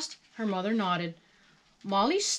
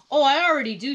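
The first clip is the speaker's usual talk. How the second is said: higher, louder happy reply; exclaiming; 6 semitones higher, 8 dB louder, faster than usual. A narrator's reading. Molly answers the storekeeper's welcome, exclaiming. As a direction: burst out keenly. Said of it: "she exclaimed".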